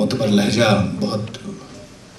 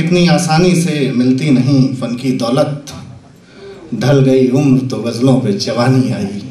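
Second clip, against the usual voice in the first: couplet recitation. Acted. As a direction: recite Urdu poetry unhurriedly.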